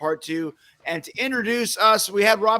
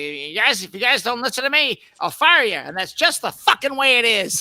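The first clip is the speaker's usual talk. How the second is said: yelling bandleader, louder and higher as it builds; a singer; 5 semitones higher, 4 dB louder than usual. Retold or imitated. Co-host retelling the taped band tirade, mock angry yelling. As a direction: imitate a furious rant, building to a raised shout. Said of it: "like, yelling? ... he's yelling at his band".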